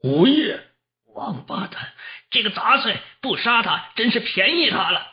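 high-pitched, indignant outburst; high, agitated bystander's abuse; outraged cursing. A narrator's reading. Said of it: "指着黄铜破口大骂".

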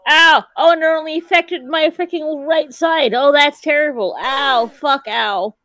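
pained ows from a brain freeze; wincing through a brain freeze. Real, not acted. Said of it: "brain freeze".

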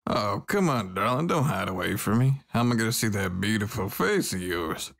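light Southern drawl, sweet-talking; a hint of a Southern belle drawl. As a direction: coax her in a lazy Southern drawl. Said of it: "I have a southern drawl".

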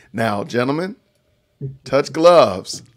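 ringmaster. Acted. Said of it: "ring announcers, uh, shtick".

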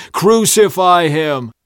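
slow, high, loud cry; shouting back. A narrator's reading. Crowd answering Pilate, long shout. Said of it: "They shouted back".

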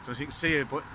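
breath steaming in the cold air. Real, not acted. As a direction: talk outdoors in freezing air, breath visible. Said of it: "you can see my breath when I talk".

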